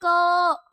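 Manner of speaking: "क" held out so the अ sound is heard; drawn-out pronunciation. Shown as a demonstration. Teacher showing children the अ inside क, drawn-out "क". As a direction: stretch "क" into its trailing अ vowel. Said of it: "उच्चारण जब करते हैं तो उसमें अ भी आता है".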